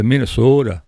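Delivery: lightly imitated Minnesota accent with a long O; a touch of mock Minnesota. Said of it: "they kinda talk like that".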